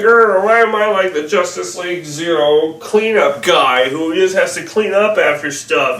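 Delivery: whining imitation of a put-upon hero; mock whiny. Reviewer mimicking the Flash complaining about cleanup duty, mock whiny. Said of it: "He's too whiny".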